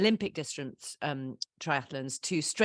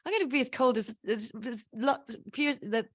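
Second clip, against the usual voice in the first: defiant refusal; 5 semitones higher than usual. Retold or imitated. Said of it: "I'm like".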